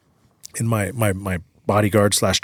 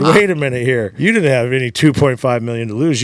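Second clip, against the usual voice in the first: retold disbelief, louder and higher; alarmed protest; 3 semitones higher, 6 dB louder than usual. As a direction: cut in with a raised-voice objection. Retells confronting gambler over lost money.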